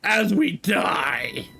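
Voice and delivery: very slow, dropped into doom; deadpan the grim ending; dark punchline. Pretend. Undercutting the girl's happy line with a slow doom joke.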